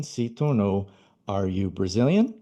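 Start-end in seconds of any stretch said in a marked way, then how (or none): 1.3-2.3 "Are you Brazilian?" with a rising question tune; question intonation. Shown as a demonstration. Teacher shows students how to ask, rising tune. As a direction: ask it, lift at the end. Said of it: "com entonação de pergunta".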